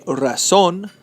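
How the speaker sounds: razón with the ZÓN stressed; stress on last syllable. Shown as a demonstration. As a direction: land firmly on the final syllable of razón. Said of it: "the stress is marked right here".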